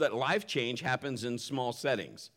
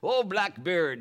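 a hammed-up old sea pirate, a bit higher and louder; 5 semitones higher, 4 dB louder, slower than usual. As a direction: play a jolly pirate greeting his old mate. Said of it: "my best pirate voice".

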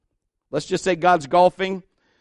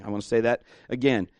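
ordinary talk

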